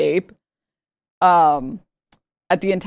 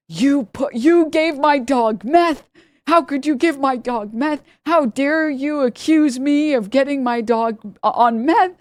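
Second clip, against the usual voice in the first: mock scream; 7 semitones higher, slower than usual. Dog owner accusing the vets, mock outraged yell. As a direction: play the lady shrieking at the vets, half-hearted.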